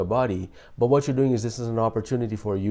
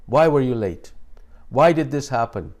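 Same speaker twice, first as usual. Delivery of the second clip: louder, pointed demanding question; accusing why; 2 semitones higher, 4 dB louder than usual. Shown as a demonstration. Friend grilling someone who showed up late, louder and accusing. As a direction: press them hard, like an interrogation. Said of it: "gets you into a defensive mode".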